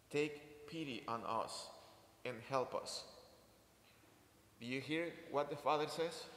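measured Gospel reading voice; scripture reading. Acted. Priest reading the Gospel to the congregation, solemn reading. Reads the Gospel passage aloud.

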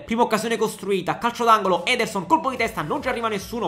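fast live match commentary; breathless italian goal commentary. Acted. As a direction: call the action as it happens.

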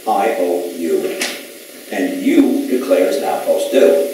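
slow, measured read-out with pauses; reading a notice. Retold or imitated. Man reading his written legal demand, slow and deliberate.

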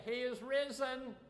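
high, loud call up to the balcony. Shown as a demonstration. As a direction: throw it up to the balcony.

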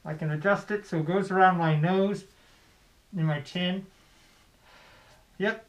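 muffled through cloth; speaking behind bandana; through a face mask. Real, not acted. Seen 0: Red bandana covers nose and mouth; removed near 17.6.

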